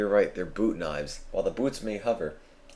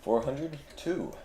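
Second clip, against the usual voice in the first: high, slow robot announcer; drawn-out mechanical robot count; 7 semitones higher, 4 dB quieter than usual. Pretend. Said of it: "The robot voice is getting annoying now".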